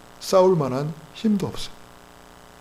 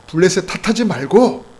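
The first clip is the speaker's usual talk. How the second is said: loud, raised exhortation; forceful preaching; 5 semitones higher, 6 dB louder than usual. Real, not acted. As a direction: urge the congregation firmly.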